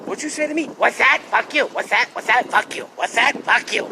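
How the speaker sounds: lightly hammed-up rude guy; rude jerk voice. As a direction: toss it off like a belligerent stranger. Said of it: "In that voice, though".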